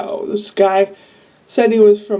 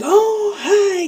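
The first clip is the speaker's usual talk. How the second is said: chirpy lady greeting; 11 semitones higher than usual. Retold or imitated. Lady greets her, quoted.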